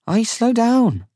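high, loud, drawn-out call. A narrator's reading. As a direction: call after someone walking too fast. Companion calls to faster walker ahead.

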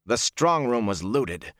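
slow, drawn-out weariness; tired, dragging delivery; weary. A narrator's reading. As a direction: say it slowly, worn out by the loss. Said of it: "Ingtar said wearily".

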